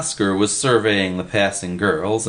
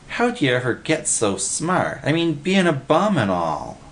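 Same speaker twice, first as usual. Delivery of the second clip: higher, admiring question; adoring; 7 semitones higher than usual. A narrator's reading. Willie marvels at Freddy's brains, adoring. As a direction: wonder at a clever pal. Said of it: "Willie sighed with adoration".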